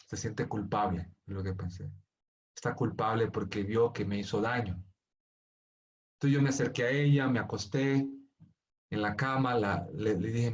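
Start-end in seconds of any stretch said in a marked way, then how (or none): 0.1-4.8 inner thought. Retold or imitated.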